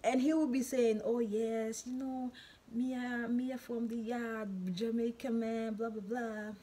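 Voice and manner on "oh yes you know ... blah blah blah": imitating a Jamaican man, pitched up; Jamaican accent. Man boasting he is from the yard, imitated Jamaican accent. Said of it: "He will always sound in the Jamaican accent".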